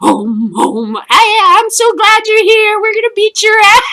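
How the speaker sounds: high, loud, fast glee; gleeful taunt. Acted. Zulus thrilled to meet the Vikings, high gleeful taunt. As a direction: crow it out gleefully. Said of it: "Zulus greeting".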